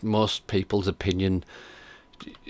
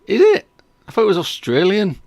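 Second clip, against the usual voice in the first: genuinely surprised; 11 semitones higher, 8 dB louder than usual. Real, not acted. Surprised to hear accent is Irish.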